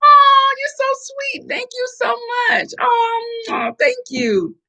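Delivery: overcome, thanking through tears; choked up, crying out thanks; tearful high thanks. Real, not acted. Emotional thanks to viewer.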